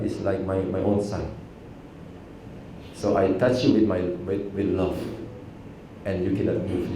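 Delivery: a soft-spoken master comforting his student; gentle, tender reassurance. Retold or imitated. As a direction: ease him with quiet love. Sensei's tender explanation.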